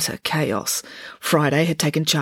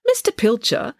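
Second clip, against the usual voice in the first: politely raised-pitch address; 7 semitones higher than usual. A narrator's reading. Girl begins questioning the groundsman, polite. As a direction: open politely, pitched a little up. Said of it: "Friday began politely".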